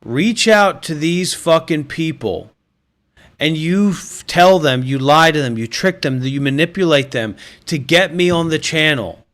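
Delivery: mock furious rant. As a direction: berate the viewers, building to a shout.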